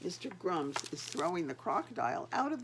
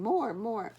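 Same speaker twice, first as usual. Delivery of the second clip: "More, more." called louder; crowd calling out; 2 semitones higher, 6 dB louder than usual. Acted. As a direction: echo the crowd's cheer. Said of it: "shouting and clapping and saying".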